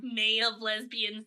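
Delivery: slow, drawling slug lady; a deadpan, unimpressed office clerk; Roz from Monsters, Inc. Acted. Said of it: "imitating the slug lady from Monsters, Inc".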